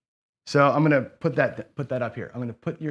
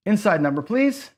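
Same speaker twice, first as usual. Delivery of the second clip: pleading; 6 semitones higher than usual. Real, not acted. Begging the dice for inside.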